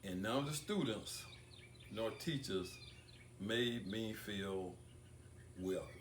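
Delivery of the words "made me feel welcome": slow down and press on "welcome"; "welcome" said slowly and weighted, set apart; emphasis on welcome. Real, not acted. Speaker recalling cold classrooms, slowly stressing "welcome". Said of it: "I put emphasis on the word welcome".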